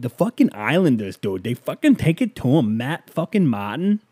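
hammed-up Boston accent, swooping pitch; bad Boston accent. Podcaster retrying his Islanders fan impression, shaky-attempt Boston accent. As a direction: attempt a rowdy Boston-accented sports fan without shouting. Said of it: "Is that a Boston accent?".

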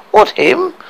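high indignant protest; tearful, angry disbelief; upset. Acted. Lily White protesting through tears.

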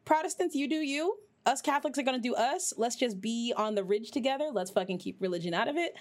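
playful take on Jamie speaking up; mock Jamie. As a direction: imitate Jamie, cheerfully firm. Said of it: "Jamie's like".

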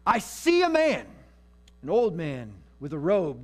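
witch's vision. Acted. Witch describing the spirit she sees.

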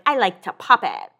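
imitating a friend's way of talking; lightly voiced impression of Lauren; a hint of her speech habit. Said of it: "she talks like that".

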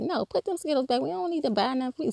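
worked-up mom ordering the Skittles put back; hyper. Retold or imitated. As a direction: snap the order out all wound up. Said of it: "I kind of was like the hyper one".

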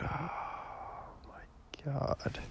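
breathless whispered aside to himself; hushed and unvoiced, just air. Real, not acted. Muttered aside after complaint.

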